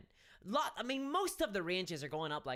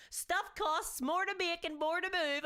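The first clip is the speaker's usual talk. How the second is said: slow, higher, lightly put-on company voice; mock corporate voice; 9 semitones higher than usual. Mocking Games Workshop's statement in a slow, lightly put-on voice. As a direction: read it slowly, a hint of smug PR. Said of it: "that's kinda how they couch things".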